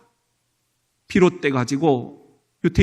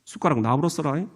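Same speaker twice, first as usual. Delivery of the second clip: lightly voiced Jeolla accent; a hint of Jeolla lilt; Jeolla dialect; 5 semitones lower, 6 dB quieter, faster than usual. Shown as a demonstration. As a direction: say it like a Jeolla local. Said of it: "전라도는".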